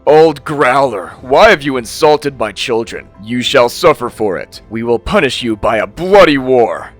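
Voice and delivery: king shouting into the cave; furious king calling in; calling out angrily. Acted. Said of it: "called in".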